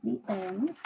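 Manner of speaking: put-on clear, gentle storybook reading for a young listener; reading to children. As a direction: read the story aloud to the child, unhurried. Teacher reads picture book aloud.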